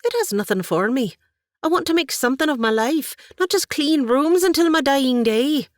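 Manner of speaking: high, loud impassioned plea; burn with purpose; fervent plea. Acted. Katie tells her aunt she needs a purpose, fervent and loud.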